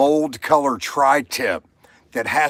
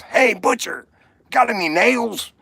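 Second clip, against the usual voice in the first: higher, perky rabbit asking sweetly; cheeky rabbit voice; 9 semitones higher than usual. Acted. Joke teller voices the rabbit asking the butcher, high and cheeky. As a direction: pitch it up like a pushy little rabbit.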